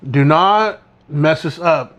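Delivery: slow retold warning, each word weighted; emphatic warning. Telling a classmate how to treat the paper, emphatic warning. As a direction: spell it out slowly as a stern caution.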